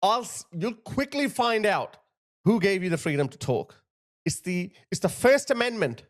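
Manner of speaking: indignant rebuke breaking into insults; real indignation. Real, not acted. Scolds the man after replaying clip.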